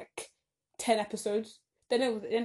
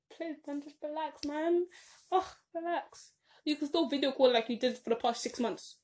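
exasperated, higher-pitched pleading; annoyed; 5 semitones higher than usual. Retold or imitated. Telling upset friend to relax over video calls, annoyed. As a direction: plead with them, fed up and pitched up. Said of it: "I was kind of annoyed".

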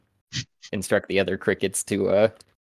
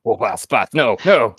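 louder, pitched-up tearful begging; mock crying; 3 semitones higher, 9 dB louder than usual. Cricket pleading with boss, mock crying. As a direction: beg as if pretending to cry. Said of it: "He begins crying".

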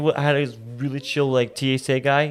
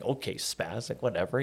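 muttered aside; 3 semitones lower, 13 dB quieter than usual. Retold or imitated. Muttered retort to rough guard.

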